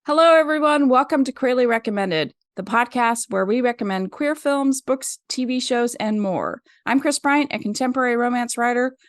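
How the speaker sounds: intro rushed in a single breath; one breath. Real, not acted. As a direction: run it all without a breath. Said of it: "tried to do it in one breath".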